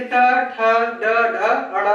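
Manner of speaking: ट, ठ, ड, ढ, अड़ with tongue curled back; punched-out ट, ठ, ड, ढ from a curled tongue; retroflex consonant demo. Shown as a demonstration. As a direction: recite ट, ठ, ड, ढ, अड़ as distinct retroflexes. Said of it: "वो मुड़ के टकरा रहा है".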